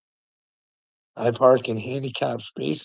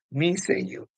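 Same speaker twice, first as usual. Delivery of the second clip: teasing sing-song; 6 semitones higher than usual. Pretend.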